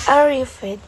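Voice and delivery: loud demo of arrived, weight on the end; stress on second syllable. Shown as a demonstration. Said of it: "second syllable on word".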